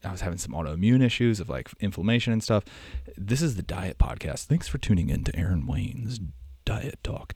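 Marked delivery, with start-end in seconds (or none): 3.2-7.3 lightly hammed-up show host voice; mock podcast intro. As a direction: play a cheesy podcast host for the joke. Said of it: "That's the punchline".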